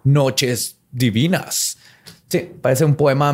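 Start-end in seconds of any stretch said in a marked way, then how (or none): 0.0-1.8 slow low hammy villain voice; mock villain. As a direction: drag it out, fake menace. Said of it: "tratando de verse malo". (villano ridículo, lento y grave)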